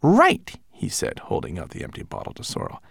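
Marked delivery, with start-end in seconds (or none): 0.0-0.6 high little manservant voice; fussy tiny homunculus. Acted. Twigleg speaks.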